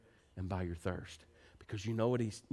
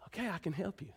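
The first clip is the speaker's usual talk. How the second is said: soothing parent; 8 semitones higher, 5 dB quieter, faster than usual. Retold or imitated. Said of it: "because you go".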